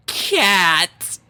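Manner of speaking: the penny drops; alarmed realization. Acted. Sudden realization.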